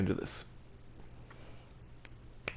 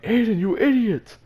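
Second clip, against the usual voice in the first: high, loud yell of alarm; re-enacted shout, pitched way up; imitated friend's yell; 11 semitones higher, 5 dB louder than usual. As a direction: yell it out like a friend calling someone out. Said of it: "I heard my friend yell".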